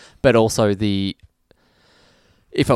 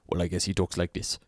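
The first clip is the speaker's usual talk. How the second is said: mock lazy actor; 5 semitones lower, 10 dB quieter than usual. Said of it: "read the name and went".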